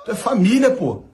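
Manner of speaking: high, laughing mock complaint from a friend; mock hurt reproach. A singer teasing another singer for not greeting him, laughing. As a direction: play the offended buddy, half laughing. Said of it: "Chris Brown quoted reproaching".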